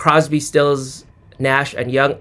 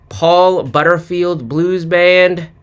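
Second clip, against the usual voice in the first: normal talking voice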